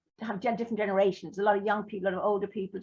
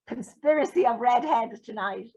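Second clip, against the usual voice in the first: laughing; 2 semitones higher, 3 dB louder than usual. Real, not acted.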